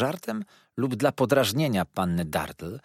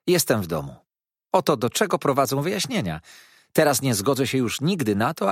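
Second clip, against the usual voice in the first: put-on sweetly insincere, pitched up young woman; mock-naive lady; 4 semitones higher, 3 dB louder than usual. Miss Dartle teasing Mrs Steerforth, sweetly insincere. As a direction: feign innocent puzzlement.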